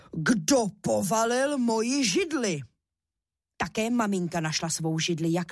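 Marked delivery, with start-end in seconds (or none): 0.1-2.6 slow, a touch of a booming papa bear; big bear shout. A narrator's reading. Papa bear finding his chair knocked over, slow mild bear roar. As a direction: drag it out like a lightly voiced big bear. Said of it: "rozkřičel svým silným medvědím hlasem".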